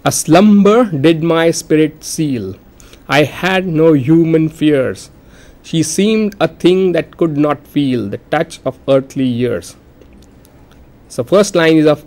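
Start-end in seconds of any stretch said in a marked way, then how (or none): 0.0-9.8 slow, measured verse reading; poem recitation. Shown as a demonstration. Teacher reading lines to count syllables, slow measured recitation. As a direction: recite line by line, letting each line fall at its end.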